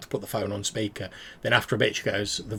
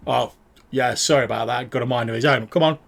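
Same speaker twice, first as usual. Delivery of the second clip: louder, casual and sheepish; background apology; 5 dB louder than usual. Acted. Adrian Lowe apologising for his dog in the background, sheepish. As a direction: call it across the room.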